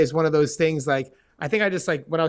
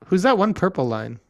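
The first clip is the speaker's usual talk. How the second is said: whispered aside; 4 semitones higher, 3 dB louder than usual. Real, not acted. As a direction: whisper it under your breath. Aside during the draw.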